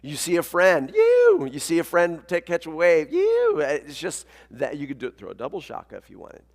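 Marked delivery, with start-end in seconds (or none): 0.9-1.5 high, loud "yew!" cheer; short burst of surf stoke; excited surfer whoop. Acted. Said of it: "when you're excited about something". 3.1-3.6 high, loud "yew!" holler; short burst of surf stoke; excited surfer whoop. Acted. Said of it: "when you're excited about something".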